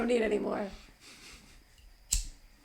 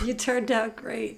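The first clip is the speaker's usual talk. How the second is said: slow, higher hammed-up sentiment; mock tender; 5 semitones higher, slower than usual. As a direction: drag it out like a syrupy father. Mocking Jim Carrey's tender speech.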